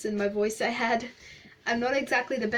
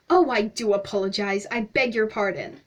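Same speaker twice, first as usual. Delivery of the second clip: babbling; 4 dB louder than usual. Acted. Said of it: "the stranger babbled".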